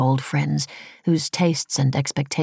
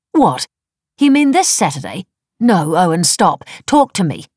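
loud, raised, insistent objection; alarmed protest; 4 semitones higher, 6 dB louder than usual. A narrator's reading. Wife trying to stop husband booking, alarmed. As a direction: cut in, startled, then press urgently.

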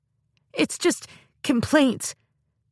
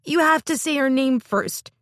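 crying rant; 6 semitones higher than usual. Acted. Girl rants to her sister through tears. Mim crying tantrum continues.

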